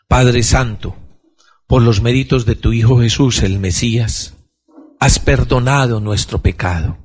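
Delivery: calm prayer spoken to the Father. Acted. Leads the closing prayer. (oración pausada y serena al Padre)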